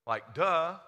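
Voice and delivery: sarcastic duh. Acted. Preacher voicing Pilate mockingly.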